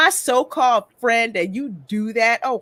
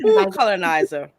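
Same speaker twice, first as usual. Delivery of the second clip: louder, laughing it out; laughing repeat; 5 dB louder than usual. Real, not acted. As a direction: echo the word while laughing. Laughing at the accent.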